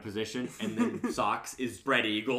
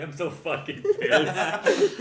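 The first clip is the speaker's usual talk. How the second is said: retold anger; 4 semitones higher, 5 dB louder, much slower than usual. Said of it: "I was so mad".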